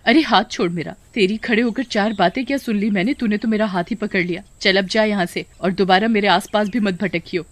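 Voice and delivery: acted indignant telling-off; angry rebuke. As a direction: tell off a man who grabbed you. Girl rebuffs man grabbing her hand.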